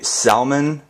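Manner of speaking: "salmon" said slowly with the L sounded, "sal-mon"; wrong "salmon". Shown as a demonstration. Showing viewers the mistaken L in "salmon", slow. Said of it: "Salmon and salmonella need to be frickin' far apart".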